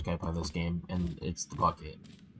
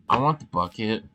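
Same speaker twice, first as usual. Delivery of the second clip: excited demand; 3 semitones higher, 7 dB louder than usual. Real, not acted.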